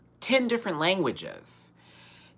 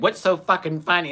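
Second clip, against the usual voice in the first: mildly irritated mock demand, slightly raised pitch; imitated mad guy; 4 semitones higher than usual. Retelling the guy demanding answers from laughing sisters, mock annoyance. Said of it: "'cause they got mad".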